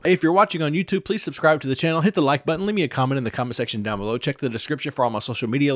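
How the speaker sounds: bright, quick channel plug; upbeat sign-off ad read; youtuber plug. Acted. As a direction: rattle off the subscribe pitch.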